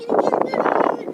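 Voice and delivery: very high squeaky kitty call; high cat-calling voice. Real, not acted.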